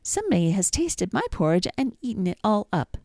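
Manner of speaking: little bear complaining about his porridge, piping high. A narrator's reading. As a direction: squeak it out like a tiny cub. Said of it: "the little bear piped".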